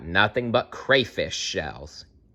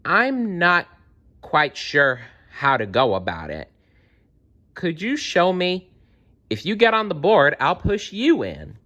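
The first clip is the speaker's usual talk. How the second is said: put-on higher, feigned innocent girl; Gretel's voice; 6 semitones higher than usual. Gretel tricking the witch, sweetly higher. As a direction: play dumb to trick the witch, higher pitch. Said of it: "said to her".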